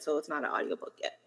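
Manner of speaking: whispered aside; whispering. Real, not acted. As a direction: drop to a whisper. Aside about the audiobook.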